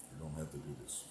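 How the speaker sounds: a light imitation of Darth Vader's calm menace. Streamer repeats the line for chat as a mild Darth Vader. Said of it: "that Darth Vader thing was a hit".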